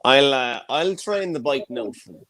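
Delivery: put-on broad Mayo farmer accent; gruff west of Ireland Mayo voice. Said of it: "I struck with my Mayo voice".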